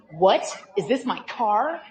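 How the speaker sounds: mild shocked groan; dismayed. Retold or imitated. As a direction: let it sink in, disbelieving. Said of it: "his car has been vandalized".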